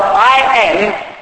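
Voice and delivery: each letter said slowly and apart, "P O S S I B L E"; spelled out slowly. Shown as a demonstration. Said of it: "the word impossible is spelled".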